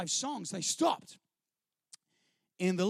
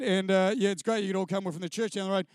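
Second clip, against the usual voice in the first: lower, louder singer addressing the crowd; a lightly voiced singer, lower and louder into the microphone; lead singer on the mic; 3 semitones lower, 6 dB louder than usual. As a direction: play the earnest church singer at the mic. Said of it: "he said".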